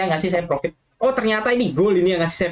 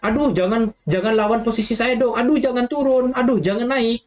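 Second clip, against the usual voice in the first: mock-pleading in a higher voice; panicky pleading trader; 6 semitones higher than usual. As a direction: beg the market not to move, half-joking. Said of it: "dia itu seperti". (memohon panik dengan nada lebih tinggi, setengah bercanda)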